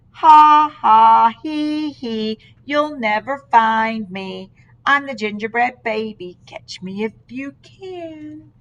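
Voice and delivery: loud mock cackle into a sly taunt; cocky laughing gingerbread baby. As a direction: gloat from the hiding place. Gingerbread baby taunts from milk can.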